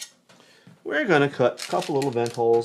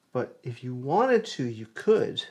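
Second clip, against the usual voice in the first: whistling S sounds; slower than usual. Real, not acted. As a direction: sibilant whistle on the S's. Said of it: "we got the whistling S's today".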